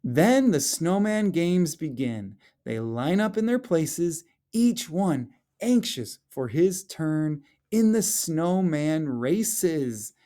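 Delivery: lively storybook read-aloud, rising at the end; expressive children's story narration. Acted. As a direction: read it like a picture book to the class. Teacher reads picture book aloud.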